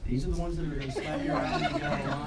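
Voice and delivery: laughing. Real, not acted. Laughing joke during ceremony.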